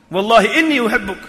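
"Wallahi inni uhibbuk" with a push on "inni"; one step firmer, leaning on "inni"; moderate emphasis. Shown as a demonstration. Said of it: "how many emphasis is there?".

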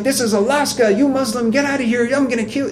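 mock rant, high and shrieking in pitch only; retold fury. Preacher voicing the furious driver threatening a Muslim, high mock yell. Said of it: "Absolutely furious".

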